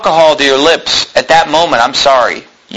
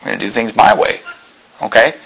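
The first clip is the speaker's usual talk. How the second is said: mock defiant wife; 6 semitones lower, 4 dB quieter than usual. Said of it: "and she just said".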